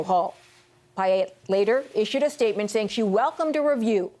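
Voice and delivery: measured news anchor read. Real, not acted.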